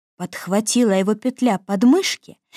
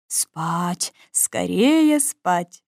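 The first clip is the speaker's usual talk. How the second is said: hushing to sleep; 4 semitones lower, much slower than usual. Acted. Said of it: "воскликнул дядюшка Римус".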